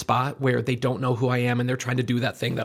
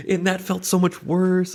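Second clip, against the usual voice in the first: laughing; 6 semitones higher, slower than usual. Real, not acted. Laughing at his own story.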